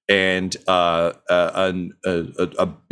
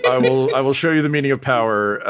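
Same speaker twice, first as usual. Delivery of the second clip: Palpatine voice; 3 semitones higher than usual. Acted. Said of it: "with that voice".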